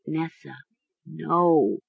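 soft hushed plea; whispering. A narrator's reading. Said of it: "Mara whispered".

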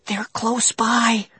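slow, breathy warning whisper. A narrator's reading. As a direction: whisper so the pirates can't hear. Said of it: "Sheena whispered".

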